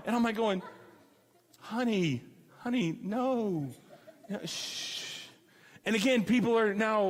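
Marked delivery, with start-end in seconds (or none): 1.6-5.2 slow, soft hush fading to a whisper; calm her down slowly, then whisper shh. Retold or imitated. Hushing her again in Applebee's.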